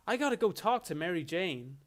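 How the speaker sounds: a hint of a generic American hero; lightly voiced middle-class white American good guy; mild stock-hero impression; Spider-Man. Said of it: "like Spider-Man being like".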